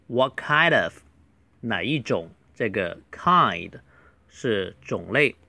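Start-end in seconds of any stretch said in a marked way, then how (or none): 0.1-1.0 "what kind of" run together as one phrase; linked pronunciation. Shown as a demonstration. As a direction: link kind into of, "kai-dov". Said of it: "连读为what kind of". (把"what kind of"连读)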